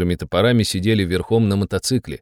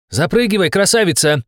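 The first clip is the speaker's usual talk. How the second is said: higher, lively smile in the voice; smiling invitation; 8 semitones higher than usual. A narrator's reading. Shama invites her passenger into the jeep, smiling. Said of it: "улыбнулась Шама".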